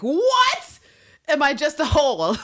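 mock outrage, high and loud; high outraged cry. Podcaster voicing proud Lister insulted by money, shrieking. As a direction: shriek it in wounded pride. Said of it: "would be like".

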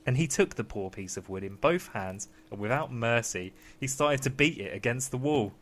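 ordinary delivery

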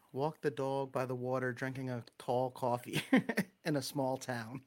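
Long Island vowels on dog, tall, coffee; Long Island accent. Shown as a demonstration. Demonstrating test words for listeners, Long Island accent. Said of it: "whole lot of Long Island accent".

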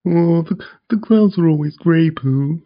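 mock Eeyore moaning to Pooh; Eeyore impression. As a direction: do a gloomy Eeyore lament. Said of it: "Eeyore is".

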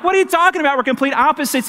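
can't believe what he's hearing; baffled protest. Retold or imitated. Pastor retelling his reply to Joe, incredulous. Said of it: "I'm like".

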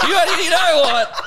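laughing through the words; chuckling while talking. Real, not acted.

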